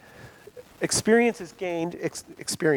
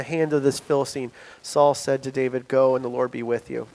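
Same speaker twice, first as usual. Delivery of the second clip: scripture reading; 3 semitones lower, 5 dB louder than usual. A narrator's reading. Reads scripture aloud.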